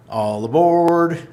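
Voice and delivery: playful all-aboard shout to the stream chat; train conductor call. Pretend. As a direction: belt it like a conductor waving everyone onto the train. Hyping hex train on stream.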